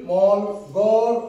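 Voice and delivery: মল and গড় stretched very slowly; slow sounding out. Shown as a demonstration. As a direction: drag out মল, গড় syllable by syllable. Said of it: "এম এ এল".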